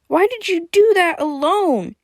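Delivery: high, distressed outcry; tearful shout. A narrator's reading. Tearful Motaro scolding Freya after the rescue, high shout. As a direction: cry it out high and upset. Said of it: "she shouted, tears streaming down her face".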